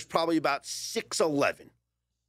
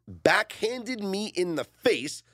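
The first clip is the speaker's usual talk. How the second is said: slow, higher, drawn-out quoting; weighty, spaced-out words; dramatic quote reading; 5 semitones higher, much slower than usual. Retold or imitated. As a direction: read the statement out with mock drama.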